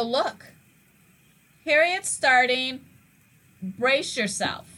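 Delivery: calm warning. Retold or imitated. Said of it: "is that I go".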